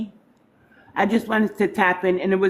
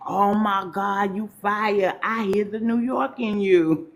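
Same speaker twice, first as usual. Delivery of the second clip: pitched-up delighted praise; impressed reaction; 3 semitones higher than usual. Retold or imitated. Host retelling her praise for Jerika, mildly excited. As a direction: gush over her freestyle, higher. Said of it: "I said".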